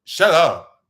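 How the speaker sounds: mock rude outburst; retold snap. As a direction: bark it at him. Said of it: "she's like".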